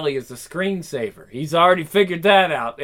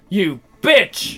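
mock scream, slightly raised; mild scream; 4 dB louder than usual. Steno cursing the one who bit her, mild scream. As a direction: cry out in anger, held back. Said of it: "Steno screams".

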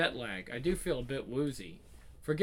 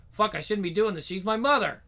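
guilty panic; 5 semitones higher, 5 dB louder than usual. Acted.

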